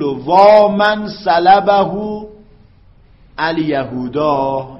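very slow recited lament, long وا; drawn-out lament. Shown as a demonstration. Teacher reading the lament example aloud, slow and stretched. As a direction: draw out the cry وا like mourning. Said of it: "میگه".

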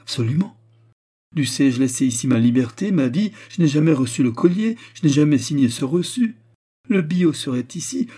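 impassioned protest, high and loud; vehement denial. A narrator's reading. Jeweller desperately denies signing the receipt. (dénégation véhémente, voix haute et forte)

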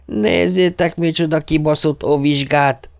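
magasan, hangosan, vigyorogva kurjantva; harsogó kiáltás. A narrator's reading. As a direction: harsogd oda a többieknek, mint egy suhanc. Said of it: "olyasmit harsogott". (Viktor Krisz átkiabál a gátépítő gyerekeknek, harsogva)

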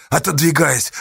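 usual speaking voice

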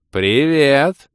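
high, loud demoness hello; joyful greeting. A narrator's reading. Demoness happily greets the adventurers, joyful. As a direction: beam out a delighted greeting. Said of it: "радостно улыбнулась нам демоница".

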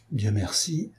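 murmure bien plus doux, soulagé; murmuré. Acted. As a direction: souffler les mots pour soi. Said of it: "murmura-t-il". (murmuré avec soulagement)

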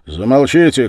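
high, loud angry cry; shout. A narrator's reading. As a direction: shout them into silence. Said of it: "крикнул я".

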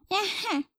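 put-on high baby "Эхе" sound; baby coo. A narrator's reading. Narrator coos as the baby girl.

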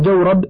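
جورب with an open a after ج, as jawrab; fatha on jim. Shown as a demonstration. Reader teaching the vowel, جورب with fatha on the jim. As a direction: say جورب as jaw-rab, not joo-rab. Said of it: "بفتح الجي".

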